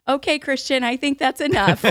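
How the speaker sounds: mock stern grandma cutting him off; exasperated mother-in-law. Mother-in-law telling the nephew to stop, laughing mock scold. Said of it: "but she goes".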